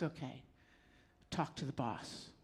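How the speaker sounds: resigned lot guy, a touch low and quiet. Retold or imitated. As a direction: hand it off with a tired shrug in the voice. Weary lot guy after sighing.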